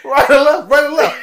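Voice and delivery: put-on high, loud Hispanic accent through laughter; mock Hispanic accent. Mocking older Luffy giving bathroom directions, laughing Hispanic accent. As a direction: ham up a Hispanic accent while cracking up. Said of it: "a real hardcore Hispanic accent".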